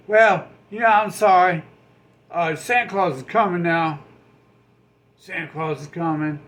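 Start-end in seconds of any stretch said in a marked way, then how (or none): 0.1-4.0 loud mock apology. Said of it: "you can just be like".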